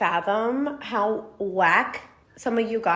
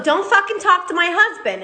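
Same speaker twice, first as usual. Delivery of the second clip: angry retort; 5 semitones higher than usual. Retold or imitated. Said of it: "I stand up and go".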